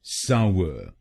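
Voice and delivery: सावर with weight on साव and a weak er; correct pronunciation. Shown as a demonstration. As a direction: model सावर cleanly. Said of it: "तो बनेगा सावर".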